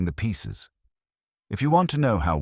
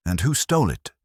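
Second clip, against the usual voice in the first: shot back; 4 semitones higher, 3 dB louder than usual. Acted. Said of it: "Kincaid shot back".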